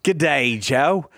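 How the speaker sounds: light mock Australian accent; playful Aussie greeting in accent. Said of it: "very convincing Australian accent".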